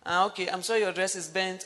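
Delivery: flat apology without feeling. Shown as a demonstration. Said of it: "did not even say it with feeling".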